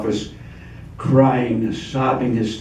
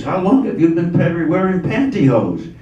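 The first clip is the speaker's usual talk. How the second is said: astonished; 5 semitones higher than usual. Acted. Guy astonished by man in pantyhose.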